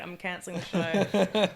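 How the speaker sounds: mock diva. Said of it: "like, Dave Chappelle now".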